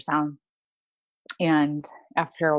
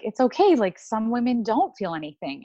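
imitating nurse, much higher and louder; sing-song reassurance; mock reassuring nurse; 6 semitones higher, 4 dB louder than usual. Clinic nurse reassuring worried patient, high cheery mock voice. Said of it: "they'd be like".

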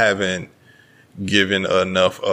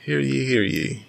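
town crier; 5 semitones higher, 3 dB quieter than usual. Pretend. Announcing a proclamation.

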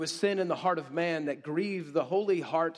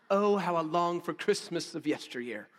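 mock yearning. Wistful aside about toddler wants.

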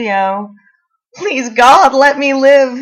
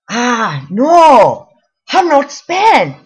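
put-on loud, slow "Hum not spent" in a heavy Asian accent; thick Asian accent; 5 semitones higher, 8 dB louder, much slower than usual. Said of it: "thickest Asian accent I have ever heard".

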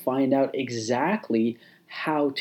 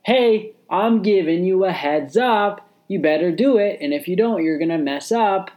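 higher, louder urgent heads-up; warning inner voice; 4 semitones higher, 3 dB louder than usual. Retold or imitated. The inner voice warning the listener, urgent and a bit louder. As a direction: tap them on the shoulder and warn. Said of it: "So it kind of warns you".

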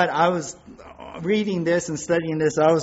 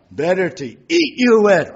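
loud hungry wolf; menacing wolf; 3 semitones higher, 7 dB louder than usual. Retold or imitated. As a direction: snarl it like a big bad wolf. Wolf answers, then chomps.

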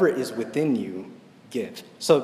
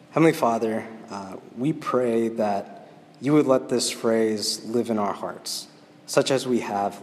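prayer; 2 semitones lower than usual. Acted. Closing prayer.

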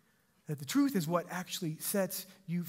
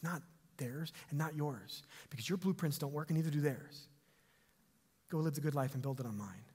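gentle Jesus; 4 semitones lower, 5 dB quieter than usual. Acted. Jesus speaks gently to woman.

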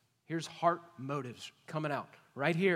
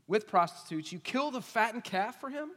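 put-on resentful older brother, louder and hard; angry older son; 5 semitones higher, 3 dB louder than usual. Older son to his father, resentful and loud. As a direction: throw his years of service back at him. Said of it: "Here's why he's mad".

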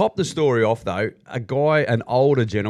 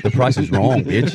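Happy Gilmore quote; 3 semitones lower than usual. Retold or imitated. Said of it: "very Happy Gilmore-ish now".

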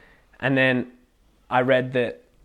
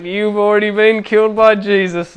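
excited; 8 semitones higher, 8 dB louder than usual. Retold or imitated. Triumphant retold stamp on snake.

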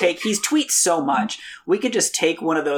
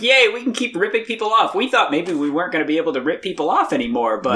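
mock gleeful cheer; 3 semitones higher, faster than usual. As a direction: celebrate like a greedy company let off the hook. Mock quote of gleeful healthcare companies.

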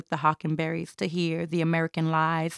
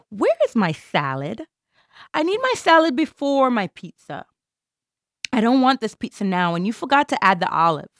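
demanding customer; 3 semitones higher, 3 dB louder than usual. Acted.

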